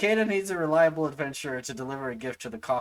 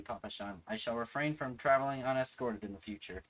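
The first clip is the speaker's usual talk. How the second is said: character voice; 2 semitones higher than usual. Acted. Voicing game NPC dialogue.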